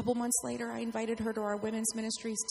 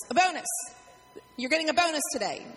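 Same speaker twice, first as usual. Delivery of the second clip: excited; 3 semitones higher, 5 dB louder than usual. Shown as a demonstration. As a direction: announce the bonus with glee. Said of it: "gonna give this group a bonus".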